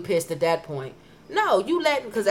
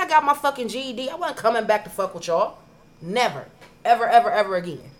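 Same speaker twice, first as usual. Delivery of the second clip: retold shout; 3 semitones higher, 5 dB louder than usual. Retold yelling at the teacher.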